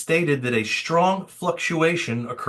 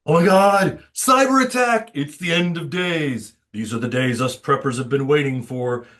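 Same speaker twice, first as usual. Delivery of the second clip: mock panic, cries out cyber attack; panicked doomsayer. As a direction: play a hammed-up alarmist prepper. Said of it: "am I doing a good job spreading fud?".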